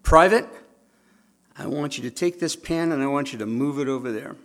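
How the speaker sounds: a loud bark of Private, then plain; a hint of a general ordering a private; general's order. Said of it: "It's like a general saying to a private".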